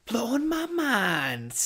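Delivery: high, slow, eerie voice for the phrase; spooky drawn-out echo. Acted. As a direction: stretch it out like a ghostly echo. Repeats phrase slowly in odd voice.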